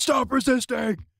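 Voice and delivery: high, slow, hammed-up police shout; mock cop bark. Streamer mocks a cop in the story, high slow mock shout. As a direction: bellow it like a parody cop. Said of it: "is being told".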